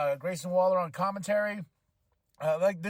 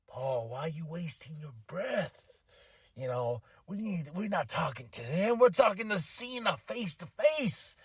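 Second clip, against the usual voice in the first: mock menace; 3 dB quieter than usual. Solo quoted on the mic.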